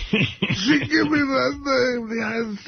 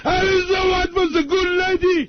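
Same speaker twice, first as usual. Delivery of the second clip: tearful; 7 semitones higher than usual. Real, not acted. Rival on phone, mentions Elizabeth.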